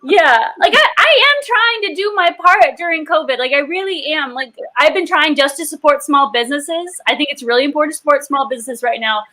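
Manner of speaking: lightly put-on Canadian; a touch of earnest mock-Canadian; Canadian accent. Winner joking about helping small businesses, light Canadian accent. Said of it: "but only in a Canadian accent".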